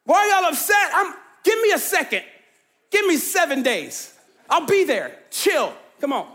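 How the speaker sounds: breezy, dismissive mock Jesus; imagined Jesus. Preacher imagining Jesus telling the mourners to chill, casually. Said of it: "he could have said".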